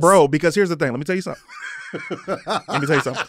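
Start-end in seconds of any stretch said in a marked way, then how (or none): 0.9-1.4 said through a laugh. Real, not acted. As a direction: chuckle while saying it. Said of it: "repeats the line plainly".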